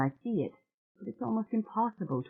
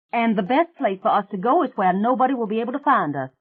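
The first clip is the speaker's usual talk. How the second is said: put-on lightly raised, quick and pushy young woman; Mary Jane's eager voice; 4 semitones higher than usual. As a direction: rattle off the plan, eager and fast. Mary Jane urging Mona.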